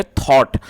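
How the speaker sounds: थॉट with an open "aw" vowel; correct pronunciation. Shown as a demonstration. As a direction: model थॉट clearly for learners. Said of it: "जो इसकी correct pronunciation है".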